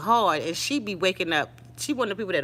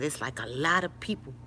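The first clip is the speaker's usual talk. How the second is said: whispering; 5 semitones lower, 6 dB quieter than usual. Retold or imitated. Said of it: "she was whispering".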